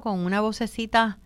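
lightly lifted, gentle tone; a touch of sugary gentleness; sweet little voice. Shown as a demonstration. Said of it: "con una vocecita, bien suave, bien sweet".

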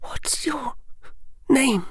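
put-on high girlish voice for Hermione; young girl's voice. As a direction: play the bright, bold schoolgirl.

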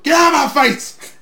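imitating a wrestler's snarl; mock yell. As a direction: bark it like Flair losing his temper. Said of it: "Yells at the cameraman".

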